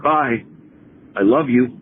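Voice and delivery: earnest, heartfelt goodbye; utmost sincerity. Shown as a demonstration. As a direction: demonstrate a deeply sincere farewell. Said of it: "with the utmost sincerity".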